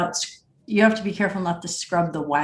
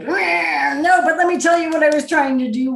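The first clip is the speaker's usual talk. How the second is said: higher, louder, fast defensive retort; triggered protest; 6 semitones higher, 5 dB louder than usual. Retold or imitated. Poet defending the draft to a mentor, triggered and fast. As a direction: fire back defensively, voice up and quick. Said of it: "in that triggered, like".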